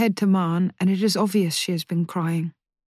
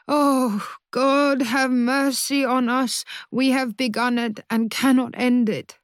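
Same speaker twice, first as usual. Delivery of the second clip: despairing prayer; 4 semitones higher than usual. Acted. Mother rocking, praying in despair.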